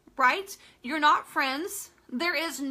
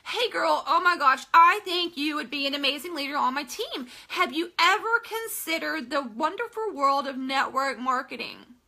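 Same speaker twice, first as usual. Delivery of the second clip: mock spam. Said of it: "We've never talked".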